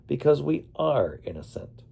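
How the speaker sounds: a hint of Australian accent, insisting on innocence; reply with a light Australian lilt. A narrator's reading. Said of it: "replied in her Australian accent".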